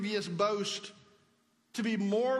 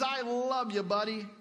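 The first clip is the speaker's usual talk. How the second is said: casual buddy love. Shown as a demonstration. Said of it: "a word that basically means".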